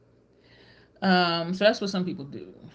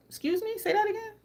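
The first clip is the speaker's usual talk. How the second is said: much higher, incredulous; shocked disbelief; 13 semitones higher than usual. Retold or imitated. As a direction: ask as if you misheard. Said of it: "I was just like".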